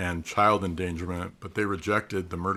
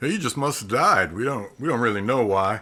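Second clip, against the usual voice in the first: loud, big crowing voice like a giant rooster; 4 semitones higher, 6 dB louder than usual. Summing up an expert witness's testimony, Foghorn Leghorn voice. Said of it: "I don't know why I did that voice for him".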